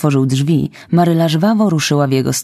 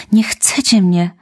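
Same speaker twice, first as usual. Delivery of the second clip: crying out; 5 semitones higher than usual. Acted. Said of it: "krzyknęła".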